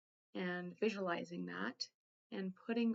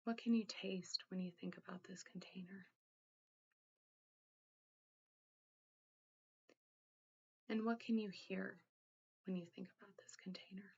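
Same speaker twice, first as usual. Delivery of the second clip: guided meditation. Acted. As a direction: gently guide the listener inward, leaving room to think. Leads a guided containment exercise.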